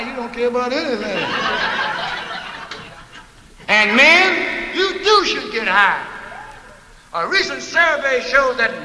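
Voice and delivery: hammed-up ad pitch, slow and pushy; mock commercial. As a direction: sell it like a TV huckster. Parody product commercial.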